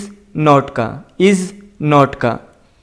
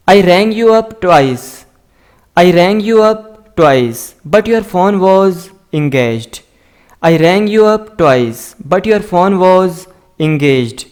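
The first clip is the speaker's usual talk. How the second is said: slow, careful dictation of each word; slow model reading; much slower than usual. Shown as a demonstration. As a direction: read it out slowly for learners to copy. Teacher slowly models English sentences. (धीमी, साफ़ पढ़ाने वाली आवाज़)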